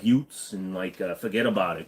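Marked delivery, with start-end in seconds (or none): 0.0-0.5 New York mafioso accent. Shown as a demonstration. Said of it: "you gotta find phrases and stuff". 1.1-1.9 New York mafioso accent. Shown as a demonstration. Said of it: "that's what they all say".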